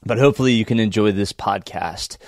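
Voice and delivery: hoarse, croaky sick voice. Real, not acted. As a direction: talk through a croaky throat. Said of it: "my apologies for my croaky voice".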